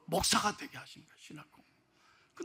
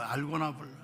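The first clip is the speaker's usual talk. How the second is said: quiet repeat; 7 semitones lower, 8 dB quieter than usual. Shown as a demonstration. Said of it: "좀 제발 좀 알고나 불러요".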